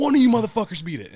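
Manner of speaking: loud, high shouted taunt; pro-wrestler hype yell; wrestling-style challenge. Retold or imitated. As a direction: throw the dare out to every rival. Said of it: "the W W E game".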